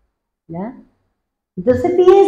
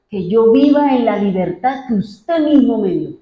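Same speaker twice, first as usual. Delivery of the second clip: modeled prayer; 3 semitones higher than usual. Shown as a demonstration. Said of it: "Dígale al Señor".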